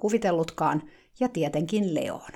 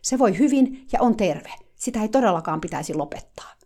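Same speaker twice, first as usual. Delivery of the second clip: curt insistence; 4 semitones higher, 4 dB louder than usual. Retold or imitated. Eager helper insisting the horse is healthy, firm. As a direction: lay it down as settled fact. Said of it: "hän sanoi napakasti".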